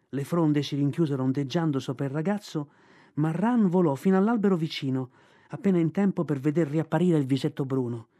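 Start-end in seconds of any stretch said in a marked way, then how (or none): none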